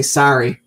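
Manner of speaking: "sorry" swapped to SAR-ee; mock American vowel in "sorry". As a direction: say "sorry" like "sari". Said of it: "He doesn't go".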